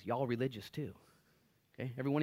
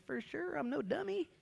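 mock smug believer. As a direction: toss it off smugly.

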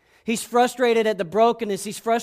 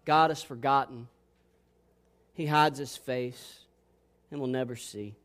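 said to himself; 9 semitones lower, 7 dB quieter than usual. Acted. The psalm's speaker saying it to himself, low and quiet. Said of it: "He says to himself".

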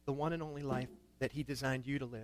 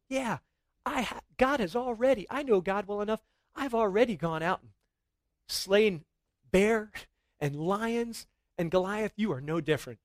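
put-on higher, louder young David, sure of God; David's bold boast; 5 semitones higher, 4 dB louder than usual. Preacher voicing David to the giant, a bold boast. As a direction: give it a boy's fearless swagger.

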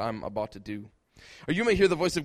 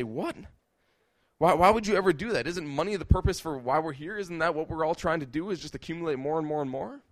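incredulous outburst; 3 semitones higher than usual. Retold or imitated. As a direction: balk at giving up money. People balk at lower pay.

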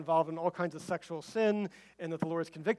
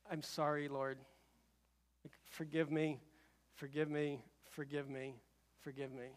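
softer and softer, fading apology to God; contrite prayer; 4 semitones lower, 13 dB quieter than usual. Retold or imitated. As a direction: let the pleading die away to almost nothing. Contrite prayer leaving the plane.

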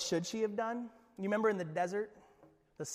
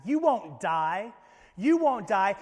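slow tempting serpent; 6 dB louder, slower than usual. Acted. Serpent's blatant lie voiced.

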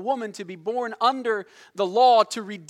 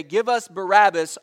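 louder, pushed demand for Barabbas; crowd shouting; 7 dB louder than usual. Retold or imitated. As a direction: call out "Give us Barabbas" like the mob. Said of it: "That's what they shouted".

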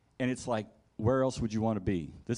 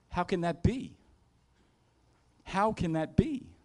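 high-pitched, incredulous question; acted bafflement; 7 semitones higher than usual. Worshipper questioning God's words, acting baffled in a high voice. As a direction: playact disbelief with the pitch lifted high. Acts baffled reaction to God.

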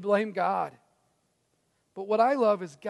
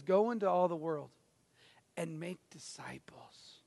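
hushed commission; 5 semitones lower, 7 dB quieter than usual. Retold or imitated. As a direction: lay the words down gently like a promise. Pastor voices Jesus's final commission.

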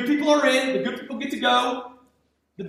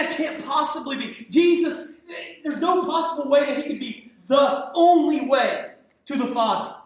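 mock outrage; 3 semitones higher than usual. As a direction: cry out in mock disbelief. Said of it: "our culture says".

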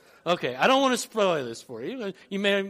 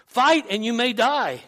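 rousing battle speech, raised pitch and volume; rally the troops with acted, building oratory; William Wallace; 3 semitones higher, 4 dB louder than usual. Wallace urges countrymen to fight for freedom, rousing acted speech. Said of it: "Wallace replies".

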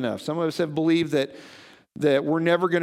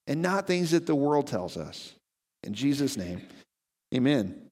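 prayer. Acted. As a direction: pray it sincerely, letting the voice sink at amen. Pastor prays for the congregation.

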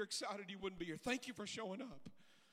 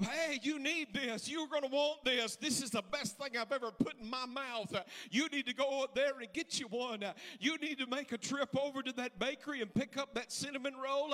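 higher, pressing, enthusiastic push; eager sales pitch; 4 semitones higher, 3 dB louder than usual. Acted. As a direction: sell it like the best thing ever. Acted eager pitch to friends.

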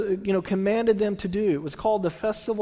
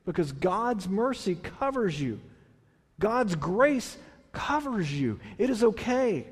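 reassuring; 4 dB quieter than usual. Retold or imitated. Priests telling repentant people they are forgiven, soft reassurance. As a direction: gently reassure someone forgiven. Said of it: "they're basically saying".

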